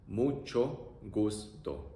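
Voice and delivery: very slow "Mucho gusto." drawn out; teacher modelling slowly; slow demo. Shown as a demonstration.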